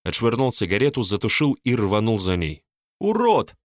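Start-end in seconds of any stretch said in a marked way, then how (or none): 3.0-3.5 very high squeak; squeaked insult. A narrator's reading. Polina squeaks an insult at Mark while running. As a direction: squeak the insult over her shoulder. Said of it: "пискнула она".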